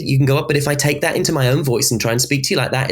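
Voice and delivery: lilting "speak to you like that", rising and dipping; sing-song Scouse prosody. Shown as a demonstration. Demonstrating Scouse tune in own voice, sing-song "speak to you like that". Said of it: "slight sort of sing-song to it".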